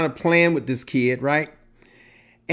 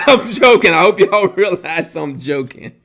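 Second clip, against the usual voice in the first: laughing; 4 dB louder than usual. Real, not acted. Laughing while saying he's joking.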